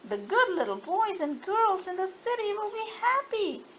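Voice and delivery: grateful toys. Acted. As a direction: thank her like a delighted doll. Toys thanking the engine.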